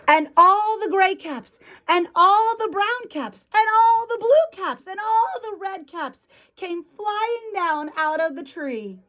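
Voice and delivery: high, building list with stress on each "all"; animated storytelling as things come tumbling down; picture-book narration. A narrator's reading. Reads picture book to children.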